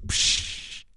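drawn-out "psch" shush; hushing. Acted. People silence a would-be leader, hushing. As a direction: cut them off with a shush.

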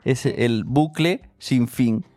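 very slow, ominous pronouncement; mock-doom announcement of an endless loop; dramatic slow. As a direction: drag it out like a movie trailer.

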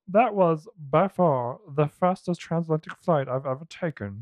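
nasal Kermit-style British voice; sing-song Kermit doing a British accent. Retold or imitated. Correcting the co-host with a British Kermit voice. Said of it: "Just full Kermit, huh?".

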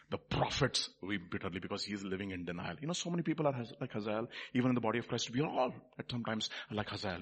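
low, soft sermon voice; hushed solemn preaching. Real, not acted. Preacher admitting we are all like Hazael, hushed. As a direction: preach it quietly, pitched low.

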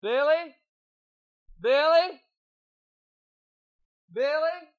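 high, loud call into the dark; a mother calling loudly for her lost son. Acted. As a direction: call his name across the cavern. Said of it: "the echo of her own voice".

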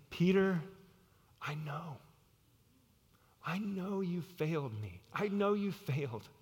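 softened, measured reassurance; gentle understanding. Acted. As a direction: say it tenderly, with pauses. Jesus reassures the failed Peter.

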